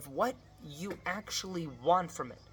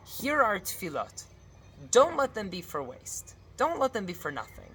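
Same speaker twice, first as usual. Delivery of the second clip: higher, insistent plea; urgent pleading; 4 semitones higher than usual. Shown as a demonstration. Rabbi models begging God to hear prayers, urgently pleading. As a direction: implore with the opening words pushed high.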